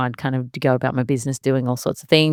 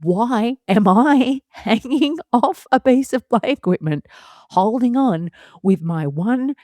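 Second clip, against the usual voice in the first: put-on higher, slow pleading child's voice; voicing the scared child; 7 semitones higher, slower than usual. Mother voicing her daughter dangling from play equipment, high and slow. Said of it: "see the look of".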